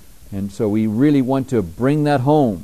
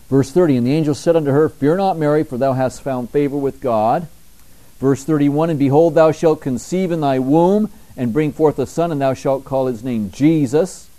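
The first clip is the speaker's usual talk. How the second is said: raised, ringing Bible reading; scripture reading. Acted. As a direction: proclaim the verses to the congregation. Reads scripture with force.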